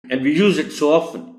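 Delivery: very slow, deliberate English; teacher slowly explains a common word. Shown as a demonstration. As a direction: lay each word out slowly. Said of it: "teacher slowly explains in English".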